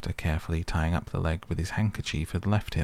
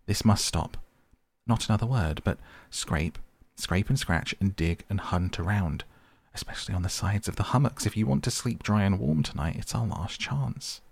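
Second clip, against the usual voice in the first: angry; 2 semitones higher than usual. Acted. Rat orders the mole to dig, angry. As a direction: lay down the law. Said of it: "really angry".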